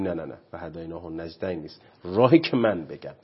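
a hint of a dismissive parent brushing it off; mock dismissive parent. Imitating parents who overrule God's way, mildly dismissive. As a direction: lightly mimic a know-it-all parent saying no.

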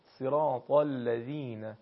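صراط الذین slowly, with a full, heavy ط; teacher's slow model of صراط الذین, emphatic ط; heavy Arabic ط. Shown as a demonstration. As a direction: recite صراط الذین carefully, thickening the ط.

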